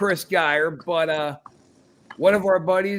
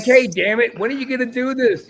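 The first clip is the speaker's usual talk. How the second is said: mock exasperated yell; 7 semitones higher, 5 dB louder than usual. Retold nagging of guest.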